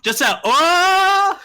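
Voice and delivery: high startled oh; surprised exclamation. Real, not acted. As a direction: gasp it out, stretched high. Reacting to screaming clip.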